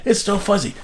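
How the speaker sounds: high mock call up to the roof; retold yell. Mother passes the answer up to father, mild mock yell. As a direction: imitate mother relaying a shout. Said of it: "she would yell up to my father".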